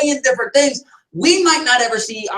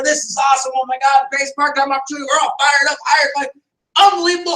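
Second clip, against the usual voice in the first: raving, rising higher toward the end; excited rookie; 3 semitones higher than usual. Retold or imitated. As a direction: gush like a hyped new recruit. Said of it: "and then".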